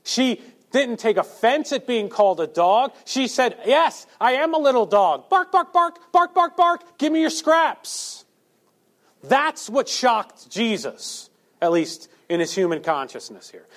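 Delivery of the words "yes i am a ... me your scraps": high, loud yappy barks; bright little-dog yaps begging for scraps; yapping little dog. Retold or imitated. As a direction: bark like an eager lapdog. Woman eagerly playing little dog.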